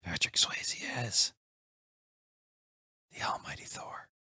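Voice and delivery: breathless whispered announcement; dramatic whisper. Acted. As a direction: whisper it like a big secret. Dramatic reveal of casting pick.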